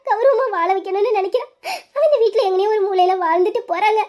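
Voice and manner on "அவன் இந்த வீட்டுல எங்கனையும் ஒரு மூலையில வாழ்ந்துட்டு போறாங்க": begging through sobs; mother in tears begging husband to spare son; tearful pleading. Acted. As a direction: sob the plea out to the husband. Mother keeps begging husband, crying.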